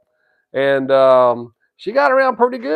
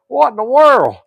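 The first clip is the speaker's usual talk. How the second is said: amazed; 8 semitones higher, 4 dB louder than usual. Retold or imitated. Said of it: "I said".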